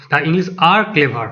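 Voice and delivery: slow, word by word answer; slow model reading. Shown as a demonstration. Teacher reads the correct answer to students, slowly. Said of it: "তাহলে option B উত্তর".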